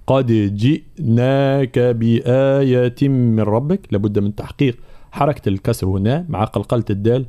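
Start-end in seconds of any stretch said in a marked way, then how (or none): 0.1-3.8 slow recited line with qalqala; Quran recitation. Shown as a demonstration. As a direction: recite slowly. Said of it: "في قوله تعالى". (تلاوة بطيئة)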